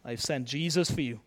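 God speaking. Acted. God reassuring an insignificant-feeling listener, low solemn assurance. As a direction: speak softly with measured pauses. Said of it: "he says".

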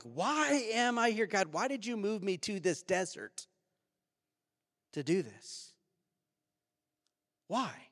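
pleading complaint, high and drawn-out at first; retold anxious plea to God. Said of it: "filled with anxiety".

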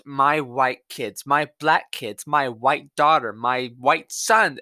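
slow, sneering parody of her bragging; mocking imitation. Mocking the mother's tweets, slow and sneering. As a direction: drag each phrase out to mock her. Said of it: "she just brags about".

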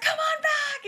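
high, loud eager call; eager invitation. Retold or imitated. Rock star inviting the couple backstage, high and eager. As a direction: wave them in with delight. Jerry inviting them back.

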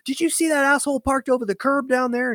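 taunting the tow driver with fake innocence; retold mock innocence. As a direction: play dumb pointing down the alley. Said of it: "and I'm like".

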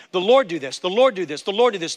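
"Lord" hit each time, a steady falling pattern; repeated emphasis. Shown as a demonstration. Pastor shows the threefold repetition, emphasizing Lord. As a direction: hammer the word Lord three times. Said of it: "three times, emphasizing".

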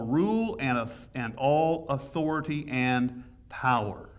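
slow, weighty scripture reading. Acted. Preacher reading scripture to his congregation, slow and weighty. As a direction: lay each phrase down slowly, like holy writ. Reads scripture slowly, emphatically.

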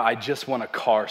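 a mock-sobbing Oprah with a laugh in it; half-laughing imitation of a blubbering wail; ugly Oprah cry. Pastor mocks the ugly Oprah cry for the congregation, hammed-up sobbing. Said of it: "Like ugly Oprah".

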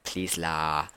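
Singlish, brushing off a compliment; Singaporean accent. Retold or imitated. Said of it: "let me not use Singlish".

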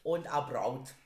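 talking through a bite; chewing while talking. Real, not acted. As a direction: mouth full of food. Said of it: "wenn du mit vollem Munde sprichst".

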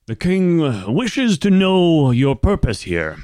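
high, loud formal proclamation; cleric herald. Acted. The king's cleric to visiting emissaries, formal announcement. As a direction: announce it grandly for the king. Game master voices the cleric.

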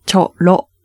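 チョロ with both vowels as open 어; Korean 어 vowels. Shown as a demonstration. Teacher models for listeners, チョロ with open Korean vowels. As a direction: say チョロ with あ sounds through お-shaped lips. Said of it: "と発音してみてください".

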